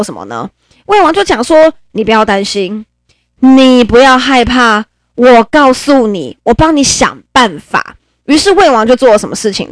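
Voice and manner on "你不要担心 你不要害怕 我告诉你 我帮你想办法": reassuring king. Acted. King comforts crying favourite.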